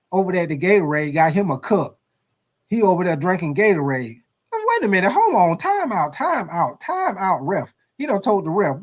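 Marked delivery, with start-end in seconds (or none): 4.5-7.7 coach calling time out. Acted.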